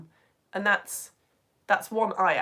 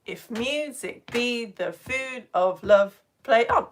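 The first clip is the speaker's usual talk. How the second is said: slow, heavy di-DUM scansion: if MU-sic BE the FOOD; exaggerated iambic beat on "food", "love", "on"; stress on second beats; slower than usual. Shown as a demonstration. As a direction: pound every second syllable of "If music be the food of love, play on". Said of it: "beat that is stressed".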